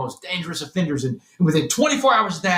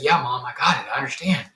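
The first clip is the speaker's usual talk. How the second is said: through tears; 4 semitones lower than usual. Retold or imitated. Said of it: "through the tears".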